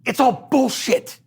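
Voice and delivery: dismissive practitioner. Retold or imitated. Practitioner telling him he talks to hear himself, dismissive. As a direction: shush him like a lightly voiced stern teacher. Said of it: "she goes".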